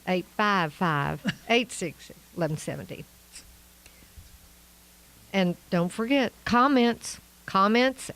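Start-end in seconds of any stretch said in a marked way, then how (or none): 0.1-3.0 Arkansas accent. Shown as a demonstration. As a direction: stretch the digits in an Arkansas accent. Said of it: "in my best Arkansas accent".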